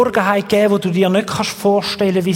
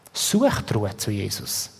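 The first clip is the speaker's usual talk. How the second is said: quiet calm; 9 semitones lower, 7 dB quieter than usual. Acted. Calm inner rest message.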